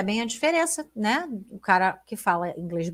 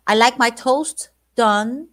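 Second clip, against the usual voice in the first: slow with stress on like; drawn-out emphatic lyric line; emphatic slow read; 2 semitones higher, 6 dB louder, slower than usual. Shown as a demonstration. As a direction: lean on like, slowly.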